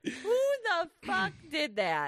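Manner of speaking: high, slow mock wail; mock crying. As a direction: whine it like fake crying. Repeats in mock cry.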